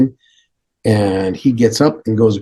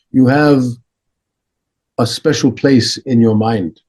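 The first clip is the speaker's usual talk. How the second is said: Dalai Lama; 2 semitones higher than usual. Retold or imitated. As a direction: instruct firmly, phrase by phrase. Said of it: "He goes".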